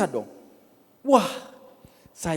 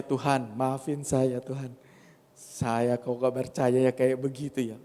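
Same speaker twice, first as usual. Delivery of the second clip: humble prayer; 2 semitones lower than usual. Retold or imitated. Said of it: "saya bilang".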